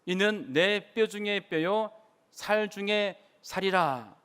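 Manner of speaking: slow, measured scripture quote; solemnly paced quotation; Adam's confession. Acted. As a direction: recite it slowly, drawing out each phrase. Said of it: "하와를 보고서 했던 첫 말이".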